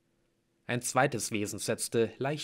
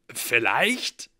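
alarmed; 7 dB louder than usual. Acted. Blitz doubts healing, in pain.

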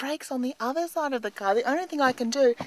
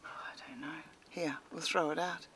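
breathy whispered aside; a soft unvoiced whisper; 7 semitones lower, 15 dB quieter than usual. Real, not acted. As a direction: whisper it so she won't hear. Muttering beside daughter in car.

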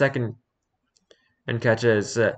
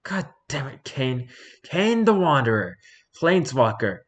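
higher, grumbling gremlin curse; an irked gremlin cursing a rival; chaotic gremlin voice; 4 semitones higher than usual. Acted. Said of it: "I'm gonna give him the chaotic gremlin voice".

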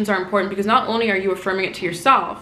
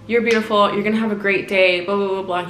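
quick car affirmation. Retold or imitated. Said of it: "I would be like".

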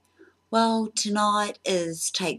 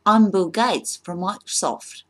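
a louder, higher hammed-up claim; mock boast; 5 semitones higher, 8 dB louder than usual. Fake applicant brags to interviewer, hammed-up loud boast. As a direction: proclaim it like a bragging fake applicant.

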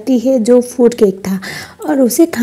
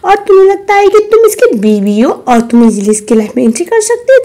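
mocking challenge; 7 semitones higher, 5 dB louder than usual. Mistress mocks the wife.

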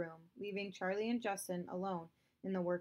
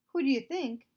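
much louder, higher retort; scornful snap; 7 semitones higher, 10 dB louder than usual. Acted. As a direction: fire it back scornfully. Father snaps back.

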